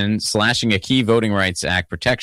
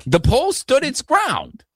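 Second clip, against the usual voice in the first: much higher, slow, lightly accented put-on voice; slow-cadence impression; 9 semitones higher than usual. Retelling the pole fight to his co-host, in a slow high impression. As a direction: drawl it out in a light accent, like an impersonation. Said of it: "He had the light accent that he does and the slow cadence".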